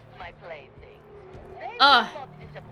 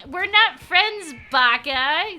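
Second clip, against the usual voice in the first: mock tsundere; 3 semitones higher, 5 dB louder, slower than usual. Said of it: "He's like".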